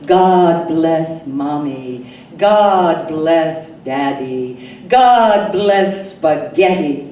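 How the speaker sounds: slow, lightly voiced toddler saying grace; child's chortled prayer. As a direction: recite it like a small child at bedtime, slow and sing-song. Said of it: "I chortled up to the big people".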